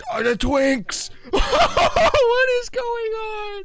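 very high, slow laughing shriek; laughing panic. Real, not acted. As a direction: shriek through the laughter in disbelief. Chased by castle guards, panicking.

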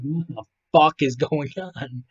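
slow, drawn-out mock bewilderment; confused. Voicing a bewildered lady in a Walmart photo, confused. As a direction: stretch it out in baffled disbelief. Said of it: "This lady is so fucking confused".

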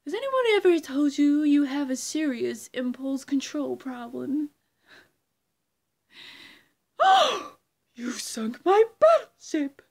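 loud, mocking villain lines with a high gasp; mock outrage, hammed up; Riddler impression. Creator doing Riddler, hammed-up mock outrage. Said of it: "impression of the Riddler".

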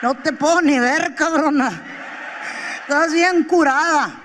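habla entre risas; risa imitada. Retold or imitated. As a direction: dilo sin poder aguantar la risa. Marido riéndose. (marido hablando entre risas)

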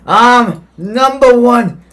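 high, loud, drawn-out brag; boastful. Real, not acted. Kid telling the other player who leads, boastful. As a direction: crow it slowly, stretching the words.

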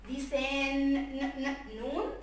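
لسان with held n, then ن in separate beats; final sound demo. Shown as a demonstration. Teacher spelling the last letter, sounding out ن. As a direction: sound out ن repeatedly before naming it نون.

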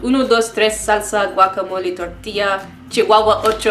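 mock Spanish accent. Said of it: "in a really accent type mode".

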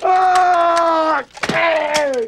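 high loud scream of panic; terrified scream. Pretend. Driver screaming as the car crashes. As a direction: scream as the car goes over.

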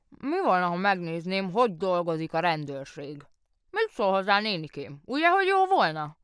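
the mayor eagerly asking his aunt's leave. Acted. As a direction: ask like a boy begging a treat. Mayor asks his aunt eagerly.

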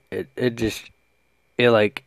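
tripping over words with dip in; halting, stumbling speech. Real, not acted. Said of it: "I'm stumbling over my words".

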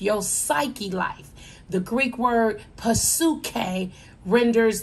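earnest sermon delivery, slowing on key words; preaching. Acted. Preacher urging a listener living in sin, earnest. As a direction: press each point home to the congregation.

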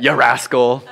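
chuckling through the words; laughing. Retold or imitated. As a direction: laugh it off lightly. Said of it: "One of my friends really said that".

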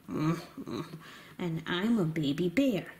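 put-on low, slow, soft baby bear; a low, slow, gentle bear cub voice. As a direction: speak like a sleepy little bear cub. Toy bear introduces itself.

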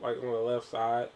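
talking with a bitten tongue; just bit tongue. Real, not acted. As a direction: speak around a sore tongue. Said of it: "I bit my tongue so bad".

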